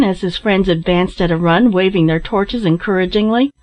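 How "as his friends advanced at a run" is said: ordinary delivery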